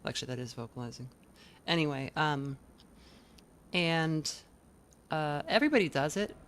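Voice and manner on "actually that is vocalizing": whispered creak demo; breathy fry without voice; unvoiced fry. Shown as a demonstration. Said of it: "if you do it without vocalizing".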